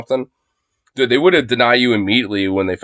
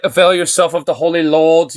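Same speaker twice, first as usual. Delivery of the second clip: a lightly voiced preacher, mocking; mild mock sermon tone; mock churchy phrase; 5 semitones higher than usual. Mocking the host's word choice as churchy talk, lightly pious. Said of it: "it's like some Catholic s-, s-, like, bullshit".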